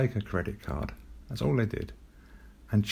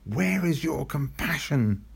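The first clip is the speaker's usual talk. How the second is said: retold cross mum; 4 semitones higher, slower than usual. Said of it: "she said".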